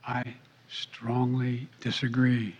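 slow breathy whisper into the mic; giggly prank whisper. Retold or imitated. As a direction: whisper it slowly, close to the mic. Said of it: "The whispering into the mic".

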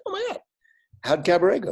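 very high, eager burst; retold starstruck excitement. Actor takes surprise call from Bob Fosse, retold starstruck excitement.

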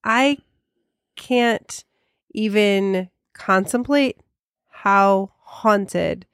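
one word at a time; halting, word by word; staccato. Acted. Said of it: "why do you have to say everything one word at a time".

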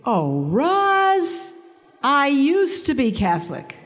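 high, lilting imitation of an old friend; mock ex-Catholic friend. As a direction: mimic her breezy greeting, pitched well up. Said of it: "This is the greeting".

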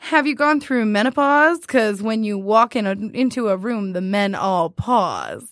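drawn out punchline; slowly landing the pickup line; slow joke delivery. Retold or imitated. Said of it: "he's like".

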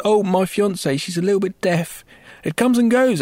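acted cover-up. Larry covering up to Fister.

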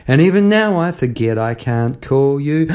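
lyric line spoken with a lift; reciting lyrics. Shown as a demonstration. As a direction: recite the refrain, rising at the end. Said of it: "reflecting on a memory".

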